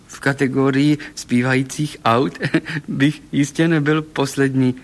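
amused boast broken by a chuckle; Golfík, laughing. A narrator's reading. Singing car joking about the talent contest, laughing. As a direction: chuckle mid-sentence as the talking car. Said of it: "smál se Golfík".

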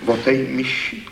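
lightly voiced discouraged young thief; dejected. A narrator's reading. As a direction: repeat it as if caught out. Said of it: "Pravil hlas malomyslně".

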